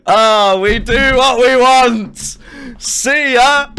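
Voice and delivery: high, loud gloating cry; gleeful taunting. Real, not acted. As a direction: crow it loudly, drawing out the words. Gloating at players in game.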